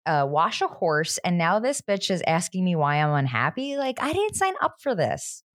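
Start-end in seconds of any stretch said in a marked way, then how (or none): 0.1-3.8 put-upon Will. Retold or imitated. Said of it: "This poor Will guy is like".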